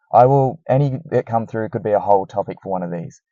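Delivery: recorded through a poor mic; poor mic quality. Real, not acted. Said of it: "I'm sorry about the mic quality".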